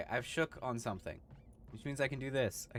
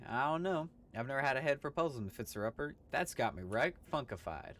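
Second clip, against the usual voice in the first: cowboy voice; 3 semitones higher, 3 dB louder than usual. Acted. Gabby greeting a stranger, loud hammy cowboy. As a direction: holler like an old prospector.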